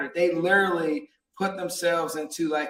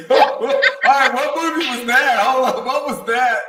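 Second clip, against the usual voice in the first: excited; 7 semitones higher, 7 dB louder than usual. Real, not acted. Host reacts excitedly, laughing.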